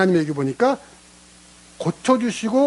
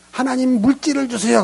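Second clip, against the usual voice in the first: mock pleading prayer; 8 semitones higher than usual. Mock lazy believer's prayer.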